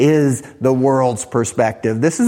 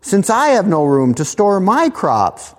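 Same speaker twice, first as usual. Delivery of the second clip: high anxious farmer voice; fretting rich farmer; 7 semitones higher than usual. Acted. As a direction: voice the rich man wringing his hands. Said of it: "He thought within himself, saying".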